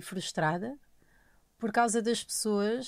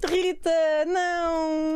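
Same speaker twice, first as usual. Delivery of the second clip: laughing; 6 semitones higher, much slower than usual. Real, not acted. Laughing protest, drawn out.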